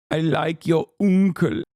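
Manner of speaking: lightly voiced goofy chatter; mock chat reading. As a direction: read the chat line in a teasing voice. Rereads chat message mockingly.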